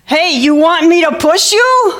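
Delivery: put-on slightly menacing big boy, slow and high; drawn-out, mock-scary boy voice; Ronald Foster. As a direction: offer it slowly like an older boy who's a bit scary. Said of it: "just a tiny bit scary".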